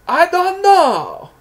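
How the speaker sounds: loud, very high, drawn-out mock Iranian voice; Iron Sheik. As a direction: holler it slowly as a befuddled Iranian wrestler. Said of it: "Sheik's brain is so fried".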